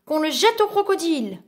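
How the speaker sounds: a hint of an outraged vizir; vizir's mild shout. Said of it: "hurla le vizir".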